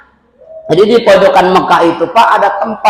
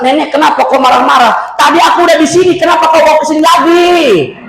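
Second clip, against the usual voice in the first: exasperated retort; 5 semitones higher than usual. Retold or imitated. Preacher retorts to grandmother.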